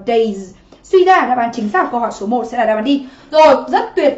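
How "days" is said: "days" with the S ending sounded after day; added S ending. Shown as a demonstration. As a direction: add an audible final S to "days". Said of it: "thêm S mình đọc là". ("days" đọc rõ đuôi S thêm vào)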